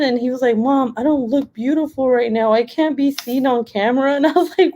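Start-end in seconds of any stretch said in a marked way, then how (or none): 0.6-4.1 put-on kid voice. Son voiced by mom.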